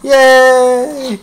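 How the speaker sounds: high, delighted yay; excited cheer. Real, not acted. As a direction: cheer him on brightly. Cheering the dog.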